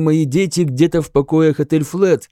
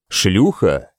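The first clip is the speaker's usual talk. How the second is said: hesitant question; 7 semitones lower than usual. A narrator's reading. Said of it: "нерешительно переспросил король".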